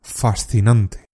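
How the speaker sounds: slow, lightly voiced detached Vulcan; a hint of Spock, fascinated. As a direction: draw it out coolly, intrigued. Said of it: "decía".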